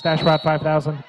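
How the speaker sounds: lightly voiced announcer robot; a hint of robot in the voice. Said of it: "you do the robot voice really well".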